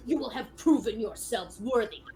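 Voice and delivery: proud knightly proclamation; formal, ringing challenge; shouting challenger. Acted. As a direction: declare it like a dueling knight. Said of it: "you hear him start shouting more".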